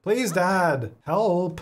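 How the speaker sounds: put-on pleading kid. Kid begging dad for bike.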